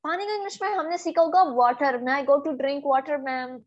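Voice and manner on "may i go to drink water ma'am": "water" as "vaa-tar" with hard T; plain South Asian hard T in "water"; learner's hard T. Shown as a demonstration. Student asks ma'am permission, hard T in water. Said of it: "ना, ऐसा नहीं है".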